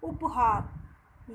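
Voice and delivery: said slowly and deliberately; teacher modelling a new word slowly; slow modelled word. Shown as a demonstration. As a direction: stretch the word out so a child can repeat it. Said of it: "क्या बोलेंगे".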